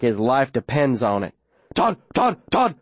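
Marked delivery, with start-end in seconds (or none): 1.7-2.8 high yelped name; dog yelping a name. Acted. Dog racing past the children, yelping. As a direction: yelp it like an excited dog. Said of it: "he yelps".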